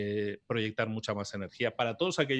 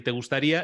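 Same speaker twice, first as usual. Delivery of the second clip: "te gustaría" lifted and louder, rising at the end; hooking phrase; 3 semitones higher, 5 dB louder than usual. Shown as a demonstration. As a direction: pitch the promise "te gustaría". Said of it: "empiezo con la palabra te". ("te gustaría" enfatizado, subiendo al final)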